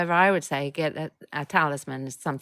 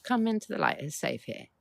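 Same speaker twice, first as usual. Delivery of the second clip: encouraging invitation; 7 semitones higher than usual. Shown as a demonstration. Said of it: "my tone, my tempo, my words".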